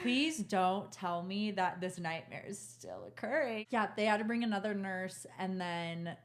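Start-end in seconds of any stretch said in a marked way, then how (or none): 0.0-3.7 slow, drawn-out plea; slow-motion disbelief, lightly acted; retold dread. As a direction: spell it out slowly in dread. Retold dread at the bad news.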